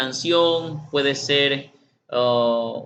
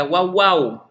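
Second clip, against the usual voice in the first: put-on child barking; 3 semitones higher, 5 dB louder than usual. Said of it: "el niño es probable que diga".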